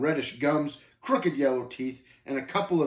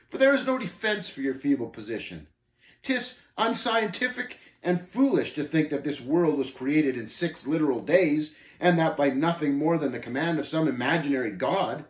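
raised, emphatic scoffer; lightly voiced scornful Shame, lecturing; 4 semitones higher, 4 dB louder than usual. Shame attacking the pilgrim's position, scornful. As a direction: argue down a feeble opponent.

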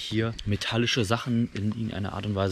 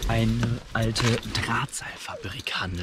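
whispering; 4 dB quieter, slower than usual. Real, not acted. Whispering in the spooky setting.

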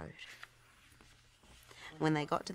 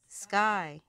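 radio call; 4 semitones higher, 7 dB louder than usual. A narrator's reading. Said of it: "radioed Ryder".

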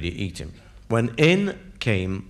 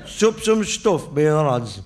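put-on drunk Yorkshire bloke; slower than usual. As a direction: brag about the pints like a drunk. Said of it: "He said".

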